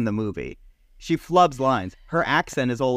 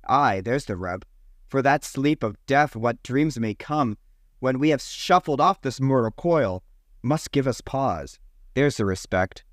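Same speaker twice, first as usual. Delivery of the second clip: mock Shakespearean recital. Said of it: "he does it by saying this line".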